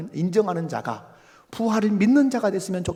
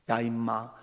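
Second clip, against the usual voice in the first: indignant scolding, hammed up; mock scolding. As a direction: act out an exasperated telling-off. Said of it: "이렇게 호통을 치지 아니하시고".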